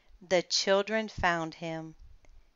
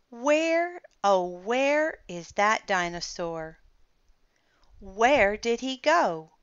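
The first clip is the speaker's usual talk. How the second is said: hammed-up puzzled calling, louder; mock searching; 4 semitones higher, 5 dB louder than usual. Children pretend to hunt for the dinosaur, hammed up. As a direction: overplay not finding him.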